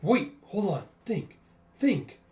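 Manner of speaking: a cornered man forcing himself to think; frantic thinking. Acted. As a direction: scramble to think under pressure. Character panics, reasoning aloud.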